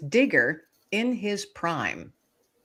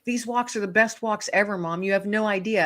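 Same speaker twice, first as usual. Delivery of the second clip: higher-pitched, eager dog's voice, retold; super excited; 5 semitones higher, faster than usual. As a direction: voice a dog eager to be off. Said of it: "he's super excited".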